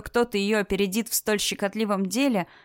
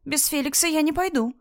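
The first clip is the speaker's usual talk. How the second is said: shout; 7 semitones higher than usual. Acted. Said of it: "крикнула Мотя".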